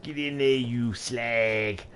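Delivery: light mock Cockney jeer; a touch of Cockney banter; Cockney swearing. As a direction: cheer it in a hint of Cockney. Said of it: "if I swear it in my best Cockney accent".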